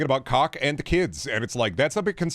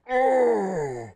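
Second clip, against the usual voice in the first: much higher, wheezing put-on voice; out-of-breath agent; 9 semitones higher, much slower than usual. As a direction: gasp like a winded fat cop.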